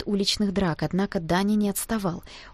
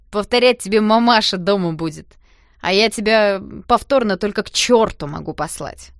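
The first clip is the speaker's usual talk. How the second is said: rude retort; 7 dB louder than usual. A narrator's reading.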